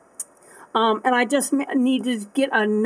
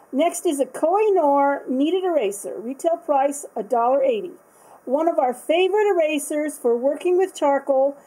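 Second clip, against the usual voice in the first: product card read; 3 semitones higher than usual. Acted. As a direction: read it like a catalogue blurb. Reads product card aloud.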